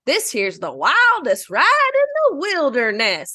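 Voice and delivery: falls at the end; intonation goes down. Retold or imitated. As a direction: let the line sink on wilderness. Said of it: "Disneyland says".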